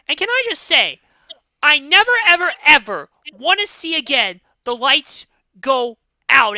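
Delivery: venting real rage at full volume; yelling in pure fury, pitch way up; furious rant. Real, not acted. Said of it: "I'm pissed".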